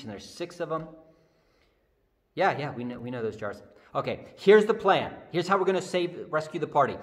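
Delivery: Jesus giving orders. Acted. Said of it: "Jesus says".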